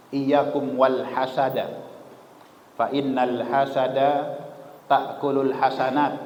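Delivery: slow, measured hadith recital; Arabic recitation. Acted. Preacher reciting the hadith on envy to the congregation. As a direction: intone each phrase slowly.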